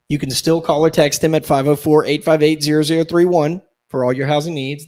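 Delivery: punchy phone number read. Acted. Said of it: "veteran ad read".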